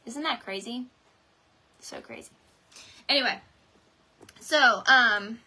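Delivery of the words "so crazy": breathy whisper, much softer; whispered aside. Real, not acted. Telling viewers it's crazy, in a whisper. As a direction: drop to a private whisper.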